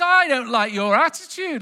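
lightly voiced fairy, ticking off a naughty rabbit; scolding good fairy. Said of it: "the good fairy comes down".

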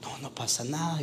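put-on gentle reassurance to a child; calm the little one softly; soothing. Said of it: "Se comienza a tranquilizar".

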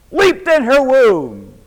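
high, loud, slow preaching cry; preached cry. Shown as a demonstration. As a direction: cry it out slowly from the pulpit. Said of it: "the baby leaped in her womb".

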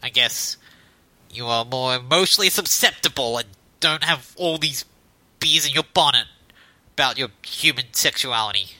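low, smug internet troll. Acted. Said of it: "how do you like my, that troll voice".

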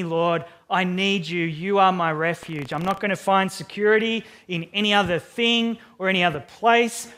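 fervent paraphrased plea to God; David's plea. Retold or imitated. David crying out to God for refuge, fervent plea. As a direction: plead earnestly as David. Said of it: "he's saying".

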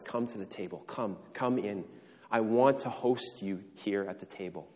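father gently calling his son to the table; tender welcome. Acted. Father welcomes returning prodigal son.

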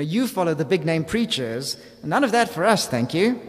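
a touch of prissy superiority; self-righteous. Retold or imitated. Preacher mocking the "I follow Christ" group, smug. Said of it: "you hear the self-righteousness".

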